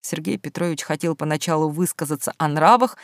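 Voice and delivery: plain reading voice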